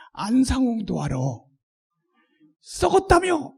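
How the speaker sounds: scornful, teasing jab; mocking retort. Shown as a demonstration. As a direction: needle them with a sneer. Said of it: "이렇게". (비꼬듯 쏘아붙이기)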